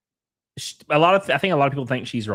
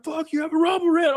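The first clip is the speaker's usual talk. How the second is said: much higher, squeaky mock voice; mocking chat voice. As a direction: squeak it out like a silly chatter. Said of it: "They're like".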